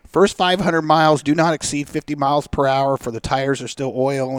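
imitating a buddy reading a manual; reading aloud. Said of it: "he starts reading".

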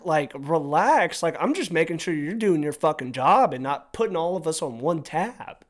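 confronting the rude bartender; heated retort. Retold or imitated. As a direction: tell him to relax, irritated.

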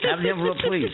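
high, grand awards-show voice; suspenseful awards presenter. Pretend. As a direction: play the showman calling for the envelope. Mock awards show request.

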